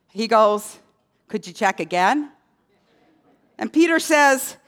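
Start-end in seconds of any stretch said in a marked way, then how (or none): 1.3-2.3 low-pitched, timid acted question; lightly voiced humble asker; meek request. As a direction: ask sheepishly, keeping it low. Criminal meekly asks at pearly gates.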